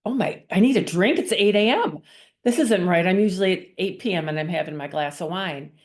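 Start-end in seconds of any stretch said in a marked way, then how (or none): 0.0-3.0 higher, louder, rising in disbelief; shocked at her own craving; startled realization. Retold or imitated. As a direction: catch yourself, alarmed at the thought. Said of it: "I'm like".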